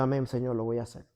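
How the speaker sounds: low, soft acted reply; retold meek submission. Husband accepting God's order to apologise, low and meek. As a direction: give in quietly, voice dropped low.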